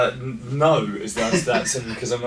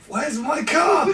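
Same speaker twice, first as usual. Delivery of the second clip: loud, slow, high mock yell; retold shout; 4 dB louder, much slower than usual. Jay yelling out for his missing car. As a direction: bellow it like a man whose car vanished. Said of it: "Jay was like".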